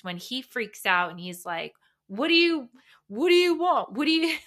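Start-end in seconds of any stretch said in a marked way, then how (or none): 2.1-4.4 high, loud, flustered repeated questions; frantic partner impression. Partner mocking boyfriend's panic at her emotions, high and frantic. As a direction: play a panicked partner blurting questions, self-consciously bad. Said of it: "bad impression of, like, a frantic reaction".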